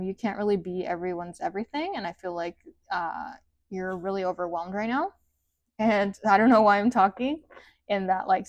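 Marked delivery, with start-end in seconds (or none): 3.7-7.4 rising tune on "right now" and "talking"; sing-songy ending. Real, not acted. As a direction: let "right now" and "talking" lift like questions. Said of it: "sing-songy ending a sentence".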